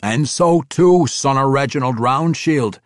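emphatic dwarf voice; proud young dwarf. A narrator's reading. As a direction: assert it without backing down. Bruenor insists on both lineages.

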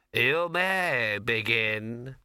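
very slow, solemn invigilator; exam proctor. A narrator's reading. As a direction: intone the start of the exam. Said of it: "he said".

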